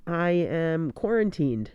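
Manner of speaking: hoarse, muffled through a face mask; sick, scratchy voice behind a mask. Real, not acted. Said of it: "you might be able to hear my scratchy voice".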